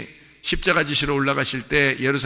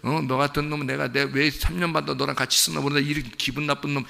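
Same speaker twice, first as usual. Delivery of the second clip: mock scolding Jesus. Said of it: "이렇게 얘기한 게 아니에요".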